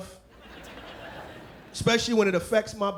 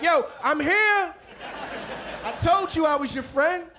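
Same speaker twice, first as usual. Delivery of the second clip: guest with attitude; 7 semitones higher than usual. Acted. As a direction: shout it with attitude in the sand.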